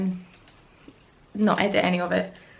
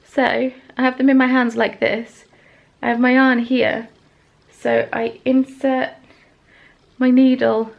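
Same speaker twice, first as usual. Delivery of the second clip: 1 demonstrating; 3 semitones higher, 7 dB louder than usual. Shown as a demonstration. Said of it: "This is not a tutorial".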